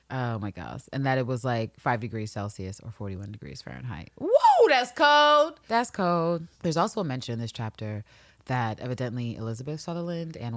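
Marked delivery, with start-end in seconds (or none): 4.2-5.6 much higher and louder, squealed; shocked reaction. Real, not acted. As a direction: yelp it out like it's freezing. Reacting to the temperature.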